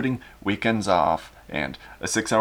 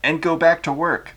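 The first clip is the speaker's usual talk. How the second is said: Ceausescu voice; 6 semitones higher, 3 dB louder than usual. Acted. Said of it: "Ceausescu then said".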